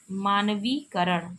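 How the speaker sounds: मानवीकरण said slowly, each syllable clear; slow careful spelling-out. Shown as a demonstration. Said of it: "मानवीयकरण नहीं होगा".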